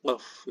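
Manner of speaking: exaggerated throaty "Qaf"; wrong, hammed-up "Qaf"; overdone qaf. Shown as a demonstration. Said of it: "yang model lebay tadi".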